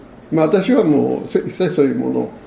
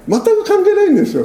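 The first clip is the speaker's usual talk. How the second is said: emphatic; 3 dB louder than usual. Real, not acted. Preacher dismisses worldly criteria.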